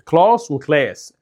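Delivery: "كلاس وكلاس" slowly, first "klahs", then "kles"; British "ah", then American fronted vowel in "كلاس وكلاس". Shown as a demonstration. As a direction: contrast broad and thin vowels in "كلاس وكلاس". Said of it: "لان هي".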